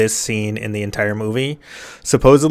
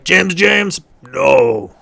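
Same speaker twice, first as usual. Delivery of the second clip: higher mock protest of a crowd; mock objection; 5 semitones higher, much slower than usual. Fans objecting to the twist, mock dismay. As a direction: imitate fans objecting, starting high. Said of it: "lots of people are like".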